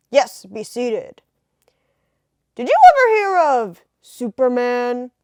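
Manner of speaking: put-on slow, loud old-time boss; a 1930s editor voice. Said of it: "nineteen thirties voices".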